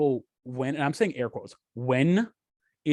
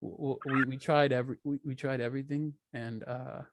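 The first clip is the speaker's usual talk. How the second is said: Elon Musk impression; 5 dB quieter than usual. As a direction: fumble then squeak it out like a shy tech boss. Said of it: "Elon Musk is somewhere just fucking like".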